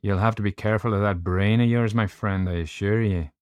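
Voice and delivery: hint of a warning Irish doctor; lightly voiced Irish doctor. Doctor warning narrator about his brain, lightly voiced Irish caution.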